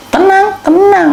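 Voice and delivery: high, slow and drawn out; calm them down slowly; slow soothing. Acted. Stretched soothing repetition. (pelan menenangkan)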